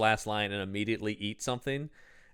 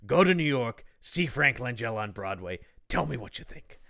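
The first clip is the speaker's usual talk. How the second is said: Hollywood producer voice; 3 dB quieter than usual. Retold or imitated. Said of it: "making him sound like any Hollywood producer".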